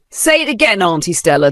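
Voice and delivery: put-on high, breaking voice of a hurt girl; voice cracking. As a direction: let the voice crack as she demands. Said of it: "her voice cracking".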